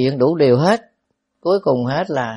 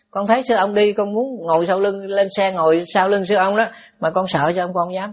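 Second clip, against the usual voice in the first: lightly voiced child, slightly raised pitch; a hint of a child confiding in the monk; child ghost; 3 semitones higher than usual. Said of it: "ma con nít". (giả nhẹ giọng con nít kể lể)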